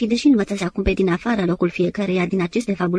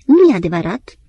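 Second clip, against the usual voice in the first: loud outburst of denial; a louder cry of protest; shouting; 7 dB louder than usual. Acted. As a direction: shout it down flat. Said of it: "strigă Vladimir".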